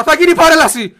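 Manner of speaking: high, very loud wailing scream. Retold or imitated. Screaming the news at his departing father. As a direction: scream it out in despair. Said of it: "φώναξα".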